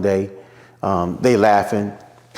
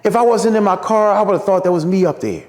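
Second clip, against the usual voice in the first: high imitated Martin voice; Martin praising; 9 semitones higher than usual. Martin tells him he sounds just like him, high imitation. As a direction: pitch up high to play Martin impressed. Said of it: "He said".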